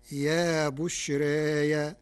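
slow يا بشراي ending in open -ya; Warsh reading. Shown as a demonstration. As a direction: draw out بشراي with a softened alif and open ya. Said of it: "بياء مفتوحة بعد الألف".

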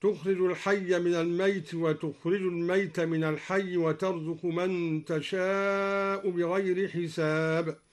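الميت said "al-mayt", without doubled y; lightened ya in الميت. Shown as a demonstration. Teacher demonstrating al-Duri's الميت, with single unstressed ya. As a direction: recite الميت as one short syllable, mayt. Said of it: "وخفف الياء من لفظ الميت هكذا".

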